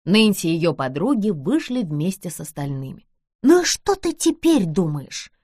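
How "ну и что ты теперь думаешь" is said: напряжённо шепнула. Acted. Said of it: "напряжённо шепнула Джордж".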